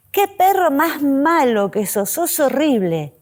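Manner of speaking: sweet sing-song praise tone for harsh words; affectionate pet talk; friendly, loving. Shown as a demonstration. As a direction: coo it to the dog like a compliment. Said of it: "de forma amigable, amorosa".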